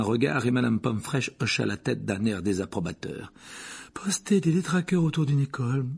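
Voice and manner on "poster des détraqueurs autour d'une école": grumbling nurse in a higher voice; disapproving mutter. A narrator's reading. Nurse feeling the boy's forehead, grumbling disapproval. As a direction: grumble disapprovingly, voiced rather than hushed. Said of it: "marmonna-t-elle".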